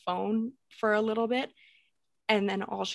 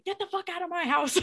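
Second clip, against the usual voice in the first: maniac yell; 9 semitones higher than usual. Retold or imitated. Scared girl ordering an intruder out of her house, maniac shout. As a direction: shout it like a horror-movie maniac. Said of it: "I look like a maniac".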